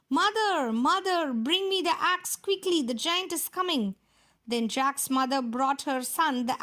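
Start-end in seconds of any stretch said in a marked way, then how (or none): 0.1-4.0 higher, urgent calling; Jack shouting. Acted. Jack sliding down the beanstalk, a mild urgent shout. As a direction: call down to mother in a hurry, lightly acted.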